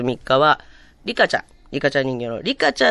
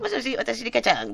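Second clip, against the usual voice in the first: quick, higher, softer doll recording; imitated rapid doll greeting; 5 semitones higher, 5 dB quieter than usual. Co-host recalls the doll's phone line, mock fast-talking. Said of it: "早口で喋ってくれるの".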